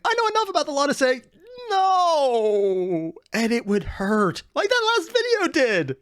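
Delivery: high, strained wail of protest; hammed-up high-pitched anguish; mock outrage.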